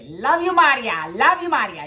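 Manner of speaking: loud, high Italian grandma coo; high, loud grandma endearment; grandma's loving squish. Retold or imitated. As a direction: coo it like a doting grandmother squeezing you. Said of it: "you know, like".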